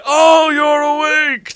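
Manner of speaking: high, drawn-out shout; loud, stretched exclamation; booming greeting. A narrator's reading. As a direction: shout it as you burst in. Dumbledore bursts in, very loud.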